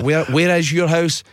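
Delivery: exasperated dispatcher. Retold or imitated. Taxi man asks old caller for address, mock exasperation. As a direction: spell it out to a deaf caller. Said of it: "he would just be shouting".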